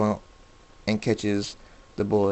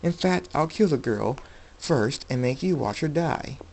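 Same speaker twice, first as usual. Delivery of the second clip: menacing thug; 5 semitones higher than usual. A narrator's reading. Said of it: "laughs and says".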